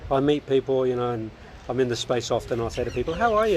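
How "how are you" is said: bright greeting. Retold or imitated. Greeting people, acting out herself.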